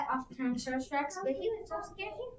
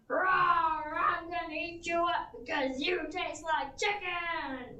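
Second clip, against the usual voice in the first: roaring T. rex; 3 semitones higher, slower than usual. Acted. T. rex chasing the Stegosaurus, roaring slowly. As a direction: bellow like a hungry dinosaur.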